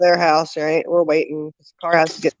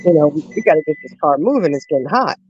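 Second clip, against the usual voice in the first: whiny. Retold or imitated. Stuck sweltering in the back seat, whining at the traffic jam. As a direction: whine it out like a miserable kid in the back seat. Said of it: "I was probably being a whiny baby".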